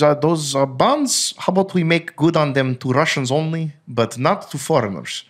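hammed-up Russian accent, the president announcing a bond default; Putin Russian accent. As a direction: put on a mock Russian accent as the Russian leader. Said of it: "So that's a good Russian accent".

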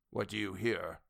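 patient but strained. A narrator's reading. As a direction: hold patience under strain. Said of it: "strain in the professor's patient voice".

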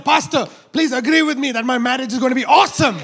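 bold, loud faith declaration; confident declaration. Retold or imitated. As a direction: claim it like it's already done. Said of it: "You need to come to me and say".

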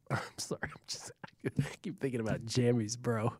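breathless whisper through laughter; trying to stifle the giggles; whispered giggling. Real, not acted. Cracking up during stats read.

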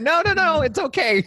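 high, playful "it's fine" voice; mock reassurance. Guest jokes about unbuttoning too many buttons, high mock reassurance. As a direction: pitch jumps way up, laughing at himself.

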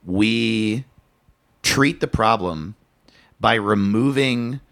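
measured robotic delivery. Real, not acted. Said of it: "I don't know why I said it like a fucking robot".

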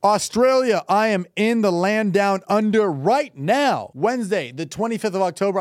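hyped tour-date announcement; tour promo read. Acted. Host plugging his Australian tour to listeners, promo read. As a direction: sell the dates, stretching the city names.

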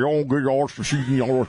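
garbled mock Eastern Shore waterman; mumbled Eastern Shore talk; Eastern Shore accent. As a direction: imitate a barely intelligible Eastern Shore accent. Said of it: "then you get on the Eastern Shore and you're talking".

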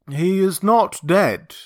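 deliberate, emphatic denial; said slowly. Acted. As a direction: spell it out word by word. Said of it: "he said slowly".

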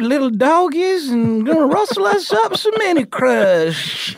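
high, hammed-up cowboy holler; yeehaw cowboy. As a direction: holler like a trail-drivin' cowpoke. Cowboy yell to "little doggies.

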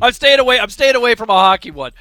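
loud, high, laughing protest; loud laughing dodge. Real, not acted. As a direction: laugh it off loudly, backing away from the topic. Laughing refusal to pick hockey.

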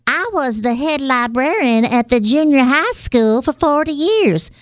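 put-on chatty old librarian lady. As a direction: play a fussy old grandma librarian. Old librarian Myrtle sketch.

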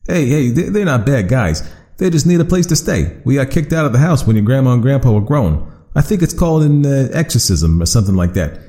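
a cheerful monster explaining itself; friendly creature voice. Acted. Creature voice held in story.

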